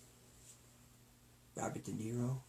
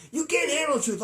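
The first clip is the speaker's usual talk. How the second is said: Jack Nicholson quote; 12 semitones higher than usual. Retold or imitated. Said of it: "he would explode".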